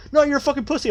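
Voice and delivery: high, whiny imitation of a taunting bully; high-pitched mock insult. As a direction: sneer it in a high mocking voice. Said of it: "And they're like".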